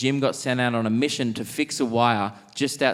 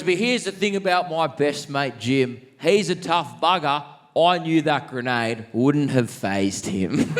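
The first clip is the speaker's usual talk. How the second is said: put-on old Aussie bloke; 3 semitones higher than usual. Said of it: "he goes".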